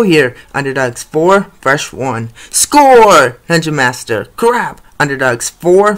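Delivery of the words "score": excited goal call. Acted. Goal call in game commentary.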